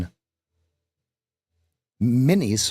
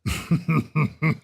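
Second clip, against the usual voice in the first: stifled laugh; 5 semitones higher than usual. Real, not acted. Laughing at own joke.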